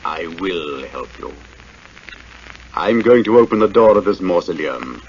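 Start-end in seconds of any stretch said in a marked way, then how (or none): 0.0-1.3 low, eerie voice from nowhere; dark whisper behind you. Acted. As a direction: speak softly from the shadows. Shadow's unseen voice, eerie.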